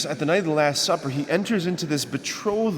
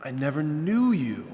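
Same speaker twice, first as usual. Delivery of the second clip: lightly voiced Jesus; 3 semitones higher, slower than usual. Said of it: "And he'll say".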